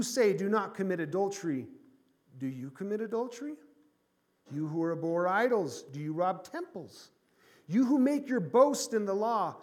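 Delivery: preacher reading Romans with rising force; scripture reading. Acted. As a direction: read the verses to the church as a challenge. Reads scripture aloud.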